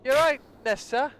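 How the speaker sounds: high, bright Welsh sing-song, drawn out; a cheeky Welsh impression from Gavin and Stacey; Welsh accent. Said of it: "Do a Welsh accent".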